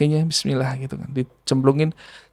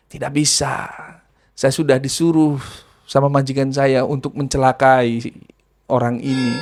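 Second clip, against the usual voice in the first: hint of a jinn voice; 3 semitones lower, 4 dB quieter than usual. Jinn answers the healer.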